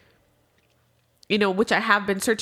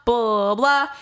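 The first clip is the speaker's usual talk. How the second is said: retold yelling; 5 dB louder than usual. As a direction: act out yelling at mom, punching the curse. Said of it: "I'm yelling at her".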